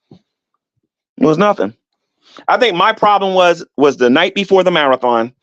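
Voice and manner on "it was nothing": "It was nothing" stretched very slowly, each word drawn out; dragged out. Shown as a demonstration. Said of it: "drawn-out repeat".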